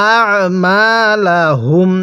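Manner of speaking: আ squeezed in the throat as an Arabic ayn, not a hamza; throat-pressed ayn. Shown as a demonstration. Teacher shows learners the ayn, আ pressed from the throat. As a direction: press the throat on আ, then মা লা হুম. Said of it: "গলার মধ্যে চাপ দিয়ে".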